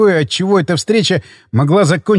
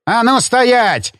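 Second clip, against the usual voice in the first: slow, heavy barked command; barked order; 6 semitones higher, much slower than usual. A narrator's reading. Father-in-law barking at Mitya, slow and heavy. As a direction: bark it to stop him. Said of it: "рявкнул он".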